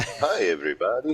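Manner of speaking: put-on cheerful cartoon doctor voice. Requesting a chat emote and acting out its line: Doctor Nick voice. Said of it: "Doctor Nick from The Simpsons".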